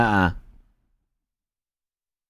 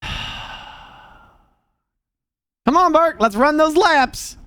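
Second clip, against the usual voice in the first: gym teacher; 12 semitones higher than usual. Retold or imitated. Teacher urges Burke to keep running laps, high and slow. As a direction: chivvy the kid along like a chipper coach.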